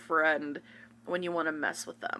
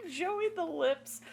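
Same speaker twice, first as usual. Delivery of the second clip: whispered echo; 11 semitones higher, slower than usual. Pretend. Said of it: "I'm just imagining".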